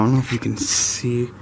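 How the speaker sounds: talking while lying on your back; lying under a car. Real, not acted. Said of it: "so I'm under the car now".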